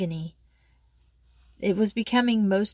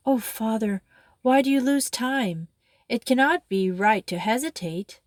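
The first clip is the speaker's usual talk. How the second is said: earnest, lightly urgent plea to her father; convincing tones; 3 semitones higher than usual. Acted. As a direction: gently press him to act. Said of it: "said the girl in convincing tones".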